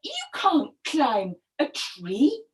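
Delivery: puzzled storybook wife; questioning crocodile wife. Acted. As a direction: draw out the questions to a husband.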